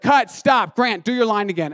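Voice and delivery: lightly voiced director calling cut. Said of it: "our director was like".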